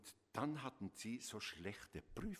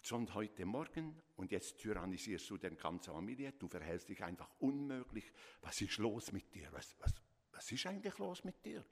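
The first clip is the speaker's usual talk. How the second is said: exasperated parent piling on accusations; scolding parent. Shown as a demonstration. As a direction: hammer the child with blame. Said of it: "Hört ihr den Ton?".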